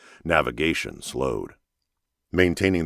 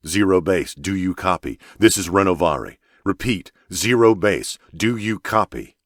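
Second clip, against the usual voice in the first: louder, higher hail, slowing on the repeat; insistent radio call; 4 semitones higher, 4 dB louder than usual. Acted. Captain repeating his call to an unanswering base, insistent. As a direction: keep hailing, more urgent each time.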